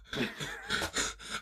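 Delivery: mock winded panting, soft and voiceless; breathing hard. Worn out from watching Paul's push-ups, mock panting. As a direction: imitate being out of breath. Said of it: "I'm over here breathing hard".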